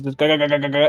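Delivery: rattling propeller plane noise; old warplane diving; airplane noises. Shown as a demonstration. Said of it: "he's just making airplane noises".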